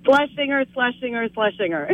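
Schlesinger three quick times; tongue twister fast. Shown as a demonstration. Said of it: "say it three times fast".

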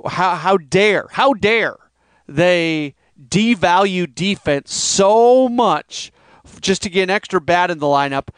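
mildly exaggerated fan indignation; retold outrage, leaning on key words; mocking-sounding outrage. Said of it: "I almost sound like I'm mocking that".

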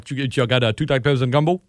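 casual Louisiana order-taking; local Louisiana accent. Shown as a demonstration. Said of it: "Somebody that's never been from around here".

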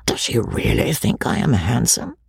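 hushed inner wonder; whispered thought. Acted. Joseph's private doubt, hushed to himself. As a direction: murmur it to himself in secret.

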